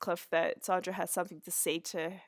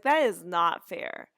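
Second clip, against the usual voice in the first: slow, louder objection; mock protest, firmly stressed; retold protest; 6 dB louder, slower than usual. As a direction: imitate an indignant mother, spacing the words out. Acted mother protesting the rule.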